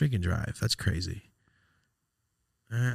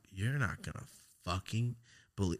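hushed mock quote; 3 semitones lower, 11 dB quieter than usual. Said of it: "she called me, like".

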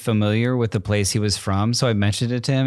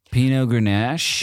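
surfer dude; slower than usual. Retold or imitated. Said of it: "he talks like that".

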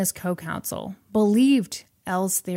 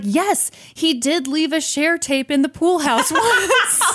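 excited confirmation; 8 semitones higher, 3 dB louder than usual. Retold or imitated. Excited client voice, breaking into laughter.

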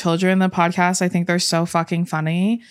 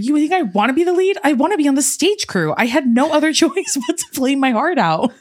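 higher voiced friend, lightly acted; acted friend quote; 8 semitones higher than usual. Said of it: "And he was like".

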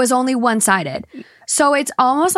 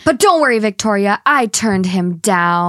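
smug mock reassurance; 5 semitones lower than usual. Mock speech to the bride.

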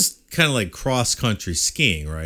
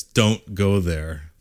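slow ominous warning; 3 semitones lower, much slower than usual. Retold or imitated. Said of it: "the natives".

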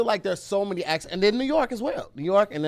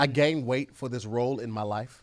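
intellectual voice; 6 semitones lower, 5 dB quieter than usual. Pretend. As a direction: speak with purpose. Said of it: "So that's how this voice".

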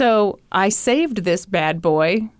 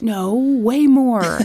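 laughing; much slower than usual. Real, not acted. Joking about price, laughing.

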